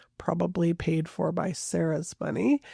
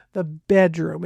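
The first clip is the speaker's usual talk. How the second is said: "the bedroom" with bedroom pushed louder; "bedroom" stressed, a touch louder than the rest; emphasis on bedroom; 4 dB louder than usual. Retold or imitated. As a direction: lean hard on "bedroom" as if it means something. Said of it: "he puts this huge emphasis on the word bedroom".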